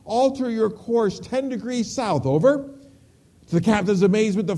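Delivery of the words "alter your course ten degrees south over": firm radio request, pitched higher; captain radioing. Acted. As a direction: hail another ship with an official request. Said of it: "his voice crackled over the radio".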